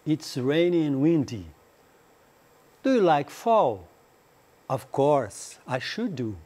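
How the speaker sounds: slow, careful English dialogue for learners; slow dialogue reading. Acted. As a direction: read each line out clearly for students to repeat. (leitura lenta e clara do diálogo)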